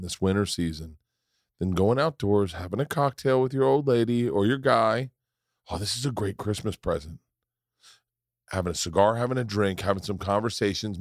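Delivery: casual sponsor pitch; host-read ad, steady and chatty; podcast ad read. Acted. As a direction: read the sponsor copy conversationally. Reads sponsor ad.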